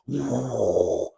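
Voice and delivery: mock dragon blowing fire, half laughing; dragon fire breath. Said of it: "that's a dra-, dragon blowing fire".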